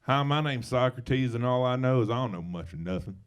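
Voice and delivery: put-on philosopher with a light Southern accent; lightly played-up Southern accent for a great thinker; Southern flair. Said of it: "with a little Southern flair is, uh, philosophy".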